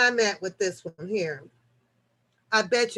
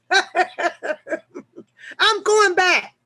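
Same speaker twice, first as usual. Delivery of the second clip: laughing; 7 semitones higher, 4 dB louder than usual. Real, not acted. Laughing reply to viewer's order.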